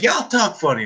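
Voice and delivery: mock Southern twang; imitating Southern guys; Southern accent. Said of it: "they're like".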